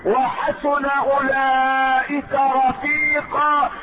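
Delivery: slow, melodic chanting with long held vowels; Quran recitation. Acted. Preacher reciting the revealed answer, Quran recitation. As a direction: recite in measured phrases, gradually climbing in pitch.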